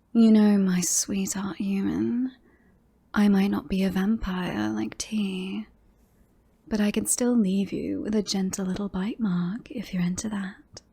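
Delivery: flirt as if making a threat; suggestive, faintly predatory come-on; threatening flirtation. Acted. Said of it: "sounds much more like threatening than flirting".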